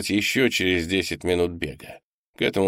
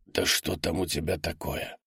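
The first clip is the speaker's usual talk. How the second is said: much softer anxious question; whispered question; 2 semitones lower, 7 dB quieter than usual. A narrator's reading. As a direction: ask under your breath. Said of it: "шептал Мингли".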